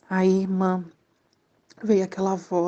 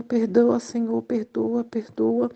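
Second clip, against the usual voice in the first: tearful plea; 2 semitones higher, slower than usual. Retold or imitated. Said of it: "a chorar, pedir perdão".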